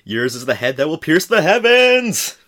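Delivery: booming anime hero declaration; heroic shout. Pretend. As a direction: proclaim it like a mecha pilot. Gurren Lagann quote, shouted.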